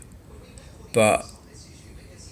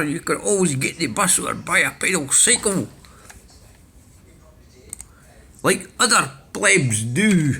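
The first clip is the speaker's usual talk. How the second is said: much higher, plummy mock-posh voice; put-on posh accent; 6 semitones higher than usual. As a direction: sneer like a snooty toff. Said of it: "let's change the accent".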